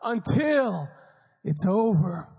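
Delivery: high, slow fired-up urging; rally a defeated dad; pleading pep talk. Retold or imitated. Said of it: "I said".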